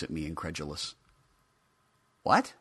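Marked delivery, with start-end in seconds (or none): 2.2-2.5 high, loud startled toy voice; surprised. Acted. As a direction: yelp in disbelief. Figure surprised.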